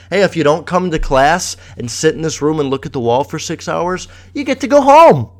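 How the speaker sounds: sarcastic cheery rule announcement, rising high; mock school announcement. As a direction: sell it like a fake-friendly notice. Mocking the school's rules.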